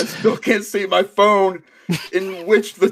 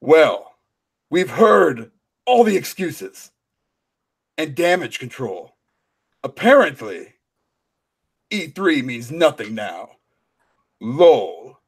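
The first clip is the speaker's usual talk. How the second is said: Kratos voice; 3 semitones lower than usual. Pretend. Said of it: "Now you sound like Kratos".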